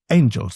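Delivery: angels punched hard on the first syllable; first syllable of angels hit hard; stress on ANGELS. Shown as a demonstration. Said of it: "He hit that first syllable really hard".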